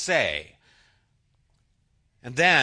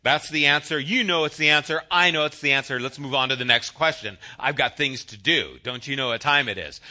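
schoolboy who just wants to move on; impatient kid; 3 semitones lower than usual. Retold or imitated. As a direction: hurry it along like a bored kid. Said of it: "I was just like".

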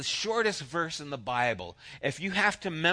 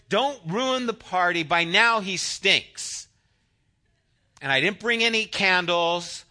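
a fussy hostess fretting, pitched up; fussy Martha; 3 semitones higher, 3 dB louder than usual. Retold or imitated. Martha fusses at Jesus about the tomb, fretting voice. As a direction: nag like a house-proud sister worried about the party. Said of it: "She's the one who would say".

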